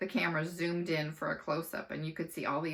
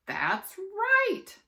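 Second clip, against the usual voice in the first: higher, loud game show yell; loud, excited quiz host; 7 dB louder than usual. Acted. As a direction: announce it like a TV host. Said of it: "shouted Dickie Blinkenbarker".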